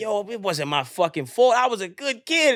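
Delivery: retold indignant protest, rising on the last line; protesting innocence. Man pleads with his mirror, indignant retold protest. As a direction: protest your blamelessness, lightly acted.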